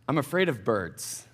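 low, hushed admission; sheepishly low and soft; quiet confession. Real, not acted. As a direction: confess it softly, dropping your pitch right down. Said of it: "I'll confess something here".

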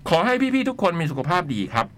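measured, articulated read-aloud; letter reading. Acted. Host reading a listener's letter on air, letter-reading voice. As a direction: read it out in phrases with pauses.

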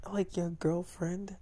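slow unvoiced whisper asking. In bed, the girl whispering a question back. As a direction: whisper the question slowly, close.

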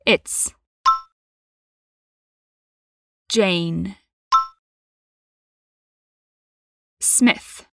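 "It's", "Jane", "Smith" said one by one with long gaps; careful pronunciation. Shown as a demonstration. Teacher drilling students word by word. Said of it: "pra praticar essa pronúncia bem, bem certinho".

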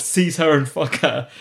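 slow, commanding queen line; imperious quote. Retold or imitated. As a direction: order it like royalty. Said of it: "the authority in the voice of".

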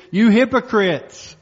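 preacher voicing a stern rebuke; quoted rebuke. Quotes Jesus rebuking the Pharisees.

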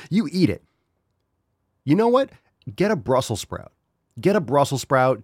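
high, loud challenge; angry rant. Real, not acted. Host rants at kale lovers, angrily daring. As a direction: dare them loudly to eat it. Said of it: "I'm getting a little angry".

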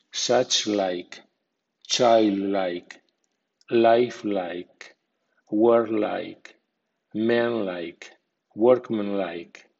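put-on childlike with like given a secondary stress; medium stress on like. Shown as a demonstration. Teacher shows learners the like suffix, medium stress. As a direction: say lifelike with like clear but lighter. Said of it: "like con acento medio, así".

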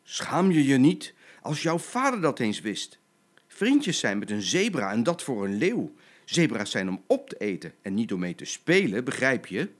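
stern mother lion telling off; cross, emphatic parental reprimand; angry scolding. Acted. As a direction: scold your child with an outraged opening burst. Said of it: "Maar moeder Leeuwin brulde boos".

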